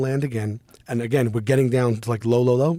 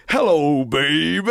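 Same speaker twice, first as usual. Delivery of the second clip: drawn-out rock-and-roll phone greeting; imitating a friend hamming up an old record's hello; a rock-and-roll singer; slower than usual. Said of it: "'cause the Big Popper fucking died".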